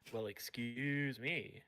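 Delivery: slow, drawn-out mock-offended retort; mock offence. Co-host answering being called a heretic, mock offended. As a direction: stretch out "excuse", playfully affronted.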